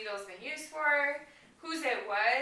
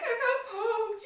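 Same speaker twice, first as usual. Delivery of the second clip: higher, slow, imitating a whimpering toddler; voicing little daughter; 11 semitones higher, slower than usual. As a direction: play the hurt three-year-old, lightly. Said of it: "My daughter's like".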